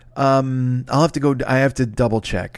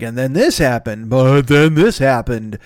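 slow, showy magician reveal, louder at the end; magic trick guy; 4 dB louder, slower than usual. Retold or imitated. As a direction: present it like a stage trick reveal. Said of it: "magic trick guy who's like".

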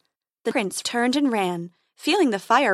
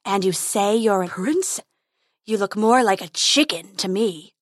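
taunting dragon. Acted.

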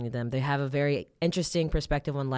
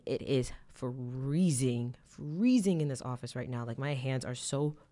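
shaking voice. Real, not acted. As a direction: voice trembling from the cold. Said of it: "I'm sorry if my voice is shaking".

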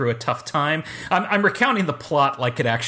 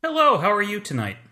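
high silly voice; 8 semitones higher than usual. Acted. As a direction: squeak it out like a cartoon. Guest greets in high voice.

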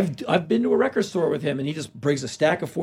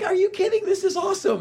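mock excited. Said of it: "I'm like".

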